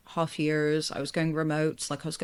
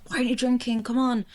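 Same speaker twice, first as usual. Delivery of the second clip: higher and louder, pushy friends nagging; hammed-up pushy nag at the bar; mock peer pressure; 7 semitones higher, 4 dB louder than usual. Imitating friends pressuring her to drink, mock pushy.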